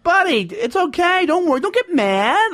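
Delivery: high-pitched retold appeasing; placating. Telling the guy walking away not to get mad, placating. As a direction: soothe him in a pleading high voice.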